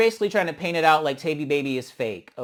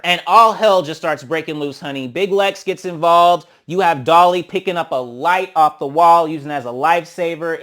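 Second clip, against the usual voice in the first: hyped recap; 10 dB louder than usual. Real, not acted. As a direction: shout the chaos out. Loud hyped fight recap.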